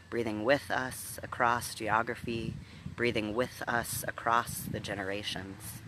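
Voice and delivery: deliberate meditation leading with long pauses; guided meditation. Real, not acted. Minister inviting scattered listeners to breathe together, guided meditation. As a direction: guide listeners into breath and body, firmly and unhurried.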